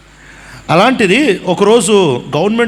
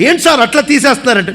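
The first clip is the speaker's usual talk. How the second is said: laughing passerby; 5 semitones higher, faster than usual. Retold or imitated. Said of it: "పక్కన వెళ్ళేవాడికే జాలేస్తాడు".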